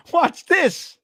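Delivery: high, loud boastful yeah; showing off. Retold or imitated. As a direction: rivals one-upping at the bar. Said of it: "They're like".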